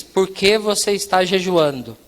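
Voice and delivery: "Por que você está jejuando" said slowly, every word complete; measured, patient questioning on "Por que você está jejuando"; deliberate repeated question. Retold or imitated. Perguntou pela terceira vez.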